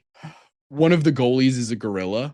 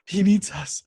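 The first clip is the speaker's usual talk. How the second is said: higher, eager cartoon vulture voice; as the vultures, thrilled to finally be needed; excited vultures; 7 semitones higher than usual. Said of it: "they get so excited".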